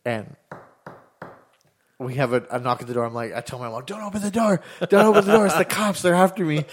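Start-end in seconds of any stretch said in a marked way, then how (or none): 3.8-6.7 high-pitched, frantic retold plea; mock panic. Kid telling mom the cops are after him, mock panic. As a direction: beg like a panicked kid, played for laughs.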